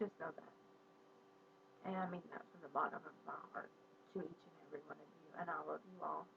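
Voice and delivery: quiet, tearful voice after crying; soft and choked up, fighting tears. Real, not acted. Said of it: "got a little teary out there".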